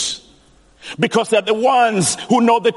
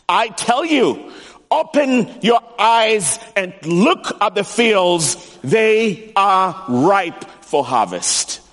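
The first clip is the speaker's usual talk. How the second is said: Jesus commanding; slower than usual. Retold or imitated. Jesus voiced in sermon.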